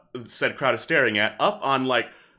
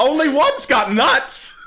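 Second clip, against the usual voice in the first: kobold comedian; 6 dB louder than usual. Acted. Kobold delivers punchline.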